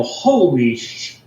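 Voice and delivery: retold gasp of amazement, drawn out; awed exclamation. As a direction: let out a slow, stunned curse, cut off short. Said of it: "I let out, Eric, and I go".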